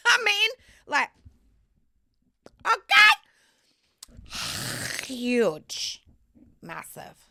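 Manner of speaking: laughing, high-pitched suggestive okay; breathless excited squeal; giggly innuendo. Real, not acted. Laughing innuendo about size.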